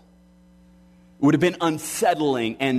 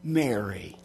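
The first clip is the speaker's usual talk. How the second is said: hushed, loving address; tender calling of a name; 5 dB quieter than usual. Acted. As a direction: say the name gently, much softer. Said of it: "When Jesus says to Mary Magdalene".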